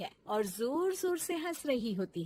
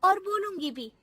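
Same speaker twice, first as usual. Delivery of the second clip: defiant retort; 7 semitones higher, 8 dB louder than usual. Acted. Bahu defiant comeback.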